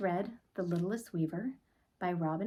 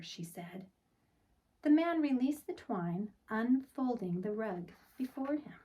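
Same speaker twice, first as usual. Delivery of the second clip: put-on gentle read-aloud for children; storybook narration. A narrator's reading. Teacher reading a picture book to the class, storybook voice. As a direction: tell it like bedtime story time.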